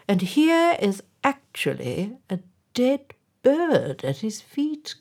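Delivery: mayor indignant at a dead bird. A narrator's reading. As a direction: sound scandalised by the bird.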